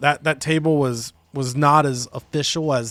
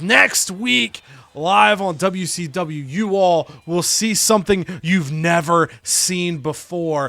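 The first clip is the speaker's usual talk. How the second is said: hype announcement; 3 semitones higher, 3 dB louder, slower than usual. Retold or imitated. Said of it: "Tommaso Ciampa says".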